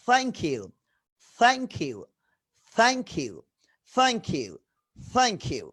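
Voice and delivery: "thank" opened with tongue lightly between the teeth. Shown as a demonstration. Teacher drills thank you for the class, careful th. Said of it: "জিভটা একটু হালকা দাঁতের মাঝখানে আসে".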